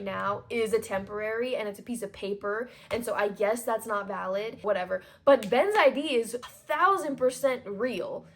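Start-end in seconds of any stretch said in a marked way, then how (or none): 5.9-8.3 climbing higher and louder in real outrage; fuming. Real, not acted. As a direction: build from a complaint to an indignant cry. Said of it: "We're fuming".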